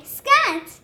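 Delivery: sharp high shout of scat. Pretend. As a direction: shoo them off loudly. Forbidden shout at pest.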